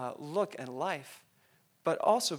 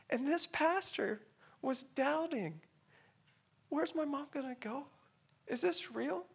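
high, choked-up questioning; real tearful voice; 10 semitones higher than usual. Real, not acted. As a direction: doubt aloud through tears, high-pitched. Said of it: "forgive me if I tear up".

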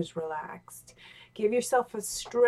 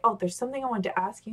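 casual ask; much faster than usual. Shown as a demonstration.

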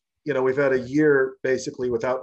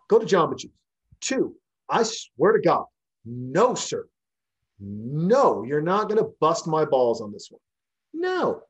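telling him off; 3 semitones higher than usual. Retold or imitated. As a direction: snap back and send him packing. Bartender telling off the husband.

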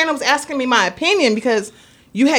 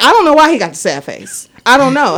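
fake phone call; 3 semitones higher, 5 dB louder than usual. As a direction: put on a loud show for the kid to overhear. Mom fakes phone call with Santa.

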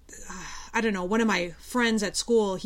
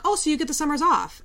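higher-voiced imitation of someone missing the point; retold naive assumption; 7 semitones higher, 4 dB louder than usual. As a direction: mimic a clueless questioner, pitched up. Same naive question retold again.

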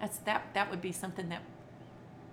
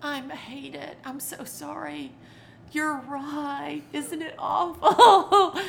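put-on comforting child; 5 semitones higher, 10 dB louder, much slower than usual. Shown as a demonstration. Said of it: "Sit down on the floor and go".

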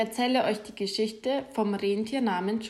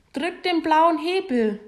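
higher, a little louder call of instruction; 6 semitones higher, 3 dB louder than usual. A narrator's reading. Santa calling instructions up to the reindeer, mildly raised. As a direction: shout the fix up to the sky. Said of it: "ruft der Weihnachtsmann".

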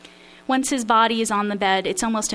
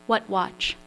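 put-on Polish accent. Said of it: "attempt my father's Polish accent".

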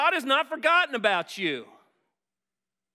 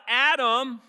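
God calling out louder across the garden; a raised, searching call; 3 semitones higher, 6 dB louder, slower than usual. Retold or imitated. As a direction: call his name as if searching for him. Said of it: "And he calls out".

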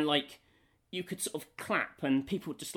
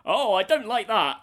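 prim villager disapproval; 7 semitones higher, 9 dB louder than usual. Retold or imitated. Villager sound bite voiced.

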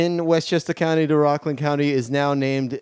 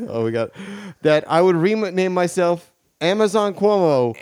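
put-on politician voice with a light Queens accent; self-important governor, Queens accent; Andrew Cuomo. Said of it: "Governor of New York State".

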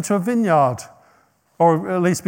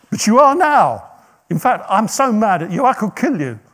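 furious rider; 5 semitones higher, 5 dB louder than usual. Retold or imitated. Balaam furious at talking donkey.

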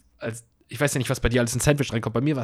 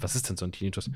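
ordinary talk

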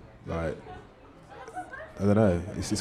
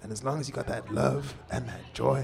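much higher put-on voice of an old soul singer; bad impression of the singer; 5 semitones higher than usual. Old singer backstage advising a young musician, much higher put-on voice. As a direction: pitch way up, an elder handing down advice. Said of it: "I'm doing the worst accent ever".

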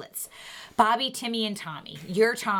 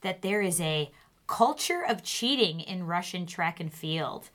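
steady news anchor delivery; news read. Acted. Reads news segment.

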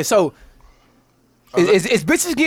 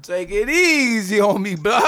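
slow pleading; 2 semitones lower, slower than usual. Retold or imitated. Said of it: "That was you to tell that nigga".

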